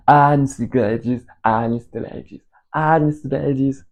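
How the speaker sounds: put-on slow, clumsy English accent on a name; slow mock English accent, self-mocking; bad English accent. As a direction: try an English accent and miss it. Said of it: "Mon accent anglais, il est pourri".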